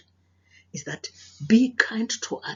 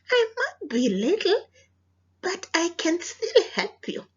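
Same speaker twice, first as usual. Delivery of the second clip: high, bright little mouse voice; small brave mouse; 11 semitones higher, 4 dB louder than usual. Acted. Little mouse telling the lion it can help, high and brave. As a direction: speak up small but sure.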